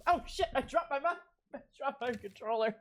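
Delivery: high, squeaky words through laughing; helpless laughter. Real, not acted. Streamer drops the controller mid-laugh, high helpless giggling. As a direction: squeeze the words out between giggles.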